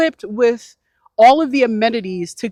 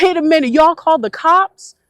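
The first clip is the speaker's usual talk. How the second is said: shocked disbelief; 8 semitones higher, 6 dB louder than usual. Retold or imitated. Retold shock at cops called.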